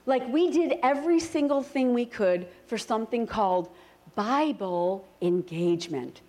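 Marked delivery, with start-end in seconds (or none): 4.1-6.2 slow, stressed on Bible; Bible engagement. Shown as a demonstration. Pastor teaching the congregation a phrase, slow and stressed. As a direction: lay weight on Bible, slowly. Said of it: "Say that word with me".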